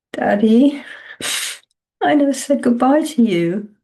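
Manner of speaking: breathy grief-struck whisper to her dead father. Acted. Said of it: "Vicky whispered".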